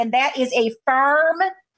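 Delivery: put-on Louisiana-accented speech. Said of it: "he's talking in his Louisiana accent".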